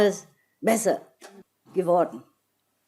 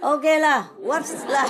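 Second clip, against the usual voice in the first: Singlish; 8 semitones higher, 4 dB louder than usual. Retold or imitated. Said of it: "You always have to say La at the end".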